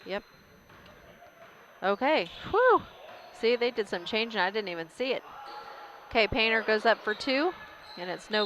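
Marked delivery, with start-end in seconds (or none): 2.5-2.8 relieved whew. Real, not acted. Relief after missed lineup change.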